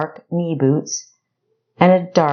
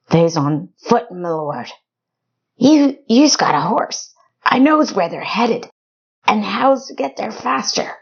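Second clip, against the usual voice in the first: higher, stammering backwoods voice; nervous rustic informant; 6 semitones higher than usual. Acted. Black pleading with the hunter, high and stammering. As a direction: plead like a scared hick caught out.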